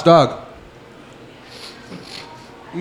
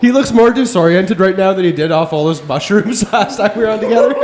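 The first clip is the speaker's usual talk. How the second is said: laughing; 4 semitones higher than usual. Real, not acted. Laughing while teasing a friend.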